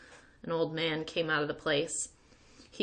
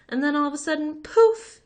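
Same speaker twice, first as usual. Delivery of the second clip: high, loud burst on poof; big reveal; 10 semitones higher, 9 dB louder than usual. A narrator's reading. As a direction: pop it like magic.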